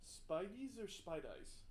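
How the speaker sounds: "Spideys" first as SPY-deez, then as SPY-dize; "Spideys" two ways, second ending rhymes with eyes; alternative pronunciations. Shown as a demonstration. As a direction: slowly offer two readings of "Spideys", ending dee then dye. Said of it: "How do you say that?".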